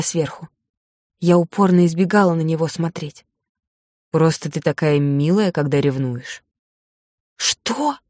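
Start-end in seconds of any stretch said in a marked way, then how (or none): 4.1-6.4 lightly voiced teasing man, lower; man's voice. 7.4-8.0 surprised. Acted. Heroine startled by teasing.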